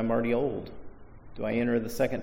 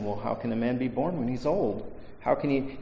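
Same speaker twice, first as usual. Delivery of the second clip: sincere, puzzled question, a bit softer; genuinely asking; 5 dB quieter than usual. Retold or imitated. Preacher reading Nicodemus as genuinely puzzled, softly baffled. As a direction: ask it as an honest, baffled man. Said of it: "genuinely asking".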